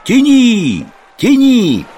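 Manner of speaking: high, drawn-out call across a distance; shouted command. A narrator's reading. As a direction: yell the order to a shipmate, pitch way up. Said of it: "монах закричал Евдемону". (протяжный высокий крик-приказ)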